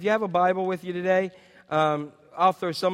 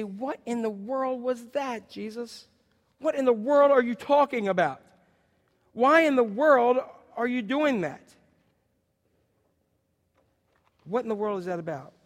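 baffled disciples; 4 semitones higher than usual. Pretend.

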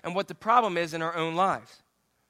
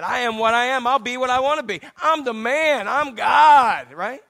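swagger it out, growing louder to the last word; Popeye; 2 semitones higher, 5 dB louder than usual. Acted. God declaring who he is, as a swaggering cartoon boast. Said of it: "I'm Popeye God".

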